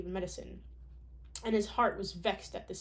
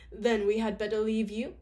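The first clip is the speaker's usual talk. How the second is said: posh voice; 5 dB louder than usual. Acted. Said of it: "She's like the posh voice".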